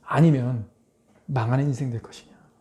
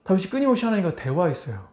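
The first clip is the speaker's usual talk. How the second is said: ordinary talk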